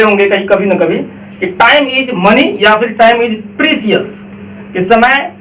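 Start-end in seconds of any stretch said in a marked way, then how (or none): 1.4-4.1 precious as "pri-si-yas", slow; wrong pronunciation. Shown as a demonstration. Teacher recalling the class mistake, slowly. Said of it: "वो भी गलत बोल रहे थे हम".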